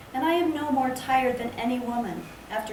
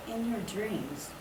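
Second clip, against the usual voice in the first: mumble; 6 dB quieter, slower than usual. Acted. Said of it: "I mumble".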